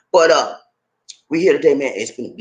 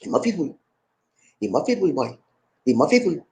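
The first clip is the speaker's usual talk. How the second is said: Gullah Geechee dialect, words run together; 4 dB quieter than usual. Shown as a demonstration. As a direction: say it softly in thick Gullah. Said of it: "I'm gonna speak in Gullah to you".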